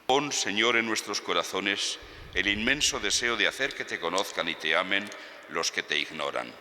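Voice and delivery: solemn liturgical prayer; formal prayer. Acted. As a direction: pray it aloud to the congregation. Priest's closing prayer.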